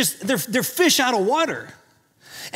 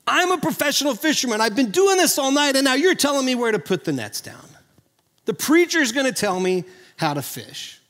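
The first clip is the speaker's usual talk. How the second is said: lightly acted indignant professional, starting higher and settling; Peter; 4 semitones higher than usual. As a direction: protest like an expert being told his job. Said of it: "Peter's like".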